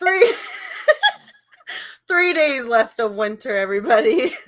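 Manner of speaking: laughing news announcer; weather reporter voice. Retold or imitated. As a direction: announce it like a TV forecaster. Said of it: "you sounded like the groundhog reporter".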